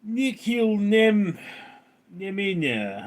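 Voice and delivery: put-on slow, light Russian accent on the name; mock Russian accent. Streamer tries a viewer's name in a mild Russian accent. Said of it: "That accent switch was crazy".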